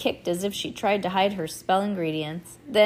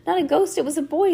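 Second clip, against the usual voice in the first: excited; 10 semitones higher, 5 dB louder, faster than usual. A narrator's reading. Scared girl insists.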